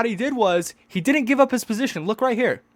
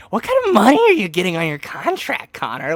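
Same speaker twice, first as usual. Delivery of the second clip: mock interviewer. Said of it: "He's like".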